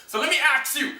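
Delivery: "ask" as "aks"; "aks you" said quickly; sneaky "aks"; saying ax. Shown as a demonstration. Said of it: "used the word axe instead of ask".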